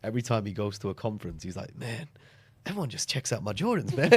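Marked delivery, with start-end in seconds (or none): 1.8-4.1 light Canadian accent, imitating a colleague; a hint of a Canadian accent, casual. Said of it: "in his Canadian accent".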